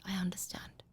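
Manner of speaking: soft whispered reassurance; tender hushed parent voice; loving whisper. Shown as a demonstration. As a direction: whisper comfort to a hungry child. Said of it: "and do it with love".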